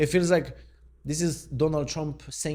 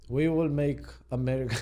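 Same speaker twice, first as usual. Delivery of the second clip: failed presidential voice with a Russian tinge; Russian-sounding Trump. Acted. Vlogger retrying a failed impersonation, Russian-sounding. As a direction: start the slogan in an accidental Russian accent, then give up. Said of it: "I sound Russian".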